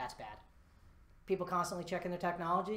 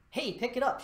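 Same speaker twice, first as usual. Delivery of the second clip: lively, louder and higher; enthusiastic; 6 semitones higher, 6 dB louder than usual. Shown as a demonstration. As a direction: pump some energy into it. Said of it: "Show that enthusiasm".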